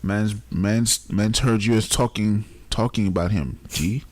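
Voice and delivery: light mock Jamaican accent, hint of a rapper; playful Jamaican patois impression. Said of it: "Jamaican Nigerian accent".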